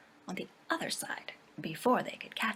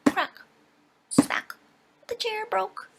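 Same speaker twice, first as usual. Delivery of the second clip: sudden loud crack, smack; startling loud sound words; loud crash words; 9 dB louder, slower than usual. A narrator's reading. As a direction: burst out loud for the breaking chair. Chair breaking in the story.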